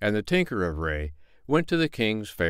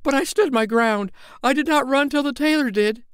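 competing boast; 4 dB louder than usual. Acted. Tinker interrupts to claim he saw it first, boastful. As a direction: claim the credit. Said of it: "said the tinker".

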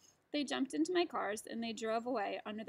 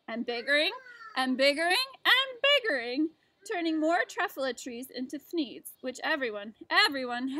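mad; 3 semitones higher, 9 dB louder than usual. Acted. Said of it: "I got terribly mad".

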